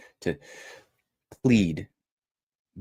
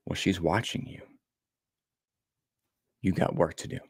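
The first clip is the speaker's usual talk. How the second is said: quieter, leaning-in retelling of a whisper; soft whisper; 2 semitones lower, 6 dB quieter than usual. Retold or imitated. Mysterious voice speaking to the father, soft. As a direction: lean in and say it softly. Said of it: "it whispers to me".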